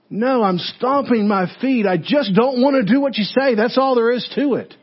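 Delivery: put-on whiny two-year-old. People refusing Samuel like a toddler, whiny stubborn child. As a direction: play a defiant toddler refusing. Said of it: "just sounds like a two-year-old".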